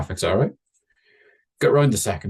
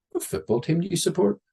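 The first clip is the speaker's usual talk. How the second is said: put-on chatty kid voice; 10 semitones higher than usual. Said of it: "first thing I said to him".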